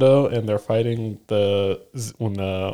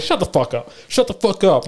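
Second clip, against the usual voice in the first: higher-pitched mock retort; retold exasperation; 7 semitones higher than usual. Answering fans who praise Usopp, mock exasperation. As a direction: repeat it higher, fed up.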